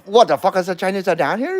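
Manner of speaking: quick movie line quote. Retold or imitated. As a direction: rattle off the movie line fast. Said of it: "You wanna hear that again?".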